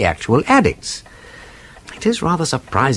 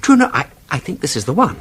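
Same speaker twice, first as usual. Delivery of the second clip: growing excitement; 3 semitones higher, faster than usual. Acted. Detective halts his friend as he finds the marked directory, excited. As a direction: catch the discovery as it dawns.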